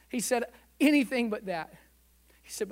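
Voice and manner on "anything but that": crying out. Retold or imitated. Repeats the plea to God.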